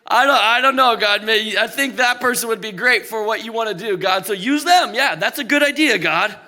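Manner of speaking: hammed-up hesitant start, then eager suggestion; mock-helpful dodging. Believer suggesting God use that person, playfully evasive. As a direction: wriggle out by brightly volunteering someone else.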